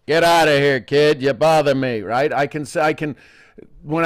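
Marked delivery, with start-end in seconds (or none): 0.1-2.0 Howard Cosell gruff brush-off. Retold or imitated. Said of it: "Howard Cosell and him going".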